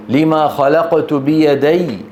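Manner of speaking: بيدي with the doubled ya pressed, slow. Shown as a demonstration. Teacher to students, the pressed ya in بيدي. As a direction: lean into the ya of بيدي. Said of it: "كل ياء مشددة ... ينتقلون بضغط".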